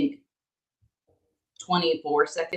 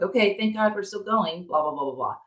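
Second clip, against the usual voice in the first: put-on lightly higher kid voice, relieved; a hint of kids sighing with relief; imitating relieved kids; 6 semitones higher than usual. Mom mimicking her kids, lightly higher and relieved. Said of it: "they were like".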